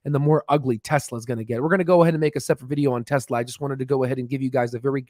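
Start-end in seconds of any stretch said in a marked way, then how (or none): 1.6-5.1 talking fast. Real, not acted. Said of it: "I'm trying to talk as fast as possible".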